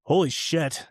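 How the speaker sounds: a light, amused attempt at Australian; Australian accent. Player greeting the fan's pregnant wife, mock Australian accent. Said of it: "in this, like, Australian".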